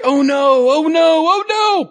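high, loud mock cry of alarm; panicking bird. Bird landing on its testes, a high loud mock yelp. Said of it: "they're like".

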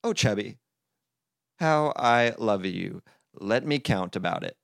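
measured mock love poem; reading a poem. A narrator's reading. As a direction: poetic recital. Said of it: "Toad read poems to his Chubby".

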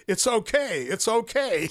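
high squawky parrot saying it's okay; a parrot mimicking soothing words. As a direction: chirp it out like a talking parrot. Parrot reassuring strangers on walk.

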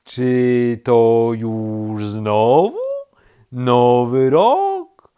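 loud, stretched-out rising question; very slow turtle. A narrator's reading. Woken turtle asks rabbit, extremely slowly. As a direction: draw each word out endlessly. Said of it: "powiedziało zwierzę bardzo wolno".

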